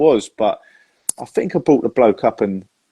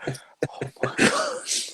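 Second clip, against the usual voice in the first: shocked gasp; 10 dB quieter, much slower than usual. Real, not acted. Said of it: "Come on. Too soon".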